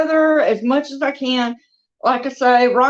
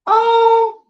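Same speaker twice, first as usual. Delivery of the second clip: delighted gush; 11 semitones higher, 4 dB louder than usual. Real, not acted. Gushing over the reborn doll.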